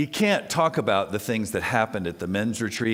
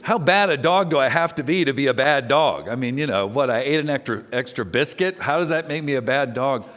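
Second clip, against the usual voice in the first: Eddie Izzard's dog; 2 semitones higher, 3 dB louder than usual. Retold or imitated. Quoting Eddie Izzard's dog, indignant and baffled. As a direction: play an offended, baffled dog. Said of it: "Eddie Izzard... the dog is thinking".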